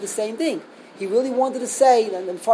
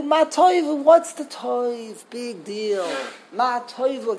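dismissive scoff; 3 semitones higher, slower than usual. Retold or imitated. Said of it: "that's what he really, really, what he wanted to say".

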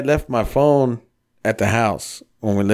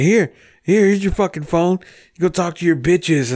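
high, pitched-up imitation of a furious girlfriend; mock furious girlfriend; 7 semitones higher than usual. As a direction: shove the phone at him, mock-outraged. Girlfriend voiced in retold fight.

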